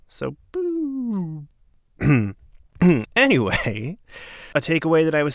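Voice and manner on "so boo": reversed whoop. Shown as a demonstration.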